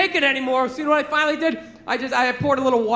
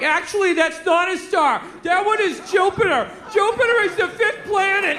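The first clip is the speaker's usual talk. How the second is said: put-on higher-pitched little kid voice; know-it-all kid; 5 semitones higher than usual. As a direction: imitate a kid correcting an adult. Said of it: "The kid's like".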